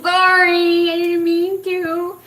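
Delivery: high, drawn-out mock-sheepish sorry; hammed-up apology. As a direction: plead it high and long, half laughing. Acting out her apology to him.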